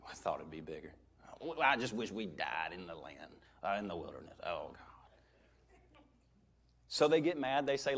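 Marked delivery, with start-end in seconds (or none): 0.1-5.9 low, soft, dragging moan; mock complainer trailing into a breathless moan; whiny complainer. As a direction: groan it out like a sulking grumbler.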